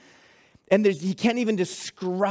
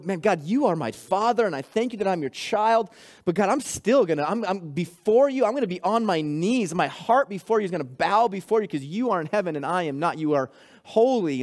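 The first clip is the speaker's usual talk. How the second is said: humble, sincere "You are my father"; bow your heart as you say it; reverent prayer; faster than usual. Shown as a demonstration. Preacher shows church a humble prayer, sincere and reverent. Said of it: "Or do we go".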